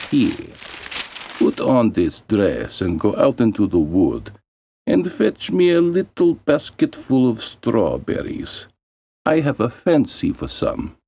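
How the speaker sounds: a hint of a bossy stepmother; stepmother's order. Stepmother orders girl into winter.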